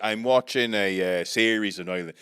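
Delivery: chatty put-on Irish brogue; Irish accent. Telling the others about a series, Irish accent. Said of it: "'Cause I'm doing an Irish accent".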